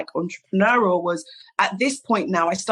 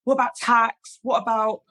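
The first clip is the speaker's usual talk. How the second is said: mock nervous; 4 semitones higher than usual. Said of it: "and I start freaking out".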